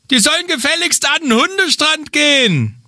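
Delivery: high, huffy beachgoer complaining; indignant voice. Acted. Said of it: "stellen wir mal so eine typische Geräuschkulisse nach".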